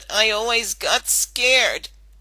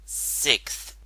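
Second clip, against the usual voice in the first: unvoiced, low mutter of one word; 7 semitones lower, 6 dB quieter than usual. Rainbow answering the receptionist, low mutter. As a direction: mutter it so only she hears. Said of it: "Rainbow Dash muttered".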